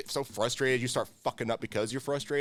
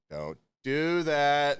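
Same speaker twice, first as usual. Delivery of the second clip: slow, stretched don't do that; drawn-out warning; much slower than usual. Retold or imitated. Cook warning a new hire, slow and stretched. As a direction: spell out don't do that slowly. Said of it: "I'm like".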